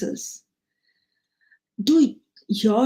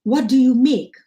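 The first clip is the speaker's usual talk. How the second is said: playful teasing call, higher, ending louder; humorous teasing; 3 semitones higher, 3 dB louder than usual. Retold or imitated. Friend teasing the teacher Taylor about his name, playful call. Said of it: "in a humorous manner".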